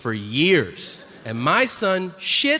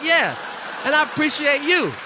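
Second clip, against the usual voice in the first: squeaky reply; 10 semitones higher than usual. Pretend. Father answering his son's thanks, high and squealed. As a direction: squeal it back, touched.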